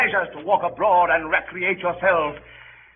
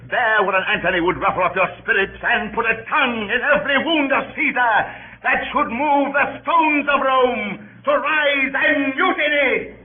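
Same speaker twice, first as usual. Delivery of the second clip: rousing build; 6 semitones higher than usual. Acted. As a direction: whip up the crowd, rising to mutiny. Antony rousing the crowd to mutiny.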